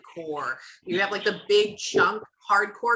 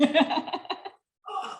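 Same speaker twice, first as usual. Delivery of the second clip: groan; 9 semitones higher than usual. Retold or imitated. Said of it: "you're like".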